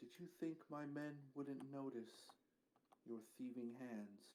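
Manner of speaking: hushed, secretive half-whisper. Voicing a woman leaning down over a captive: half-whispering in character. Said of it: "She whispers this to me".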